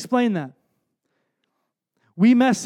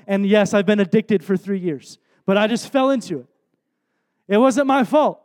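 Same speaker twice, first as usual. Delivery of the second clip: mock self-excuse. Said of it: "the most Christianese, like, um, self-abdicating".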